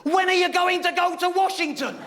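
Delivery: very high, excited questioning; eager friends. Retold or imitated. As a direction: push him, thrilled. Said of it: "But I said".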